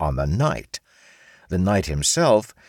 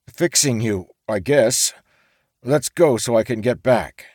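higher, grudging surrender; resigned samurai; 5 semitones higher, 4 dB louder than usual. A narrator's reading. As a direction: samurai giving in to the orc. Samurai gives in.

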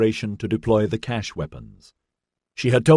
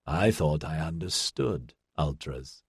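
slow, musing machine voice; thoughtful; 4 semitones lower, 7 dB quieter, slower than usual. A narrator's reading. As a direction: say it slowly, thinking it over. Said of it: "Clavane's beta level said thoughtfully".

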